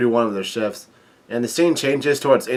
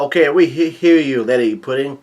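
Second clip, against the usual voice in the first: mock yell. Townsperson answers Lady Pudding, mild mock yell. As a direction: call out like a villager, half-hearted. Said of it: "one of pe-, people yell out".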